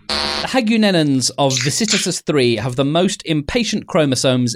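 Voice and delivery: measured, articulate guide-entry narration; steady scripted narrator delivery; story narration. Acted. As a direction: read it out like an audiobook of comic science fiction. Reads a guide entry aloud.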